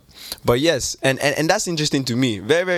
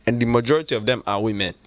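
put-on Nigerian accent. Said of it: "for the rest of it... this accent".

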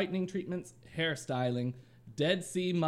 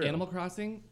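higher pitch with a rising end; upper option; 5 semitones higher than usual. Acted. Rating Animal Crossing for friends, raised rising pitch. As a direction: lift it up and leave it hanging. Repeats upper choice, then percentage.

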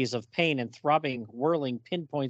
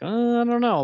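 high, loud skeptical mock reaction; an exaggerated what-really; incredulous doubt; 10 semitones higher, 5 dB louder than usual. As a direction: scoff in disbelief. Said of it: "I'm like".

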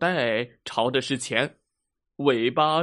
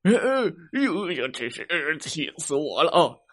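exasperated bear teacher. Acted. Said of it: "熊老师发火了".

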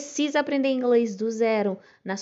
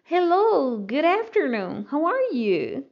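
bright "Hello", louder, higher at the start; cheerful greeting; 5 semitones higher, 4 dB louder, slower than usual. Shown as a demonstration. Teacher models an afternoon greeting for students. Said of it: "Se for à tarde".

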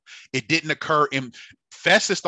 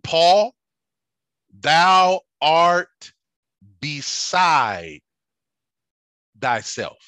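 calling out Paul's name loudly, then easing; 5 semitones higher, 8 dB louder, much slower than usual. Acted. Festus interrupting Paul with a loud cry. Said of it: "he says with a loud voice".

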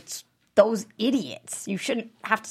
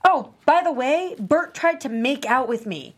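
angry parting shot; 2 semitones higher, 3 dB louder than usual. Acted. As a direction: hurl it at them on the way out. Parting blowup at family.

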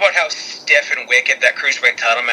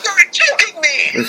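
shocked disbelief; slower than usual. Real, not acted. Shocked at tag title news.

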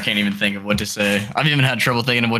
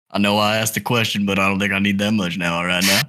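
put-on improvised girlfriend's dad with an uncertain country accent; lightly put-on rural accent. Dad questioning his daughter's boyfriend, in a put-on country accent. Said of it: "no idea what this accent is".

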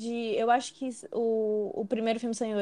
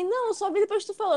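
put-on boyfriend's protest, pitched high; high-pitched mock defence; imitated boyfriend; 8 semitones higher than usual. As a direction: mimic him in a much higher voice. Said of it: "aí ele falou bem assim".

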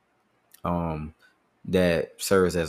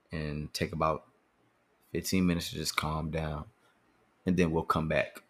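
calm mom; 3 dB quieter than usual. Retold or imitated. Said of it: "she would say".

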